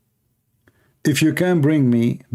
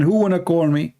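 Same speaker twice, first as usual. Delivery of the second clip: mock weary calling out; 5 semitones higher than usual. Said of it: "I lost my voice saying".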